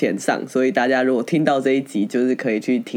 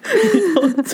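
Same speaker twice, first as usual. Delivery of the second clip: put-on Taiwanese accent; much slower than usual. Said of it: "就是有一点台湾国语的感觉".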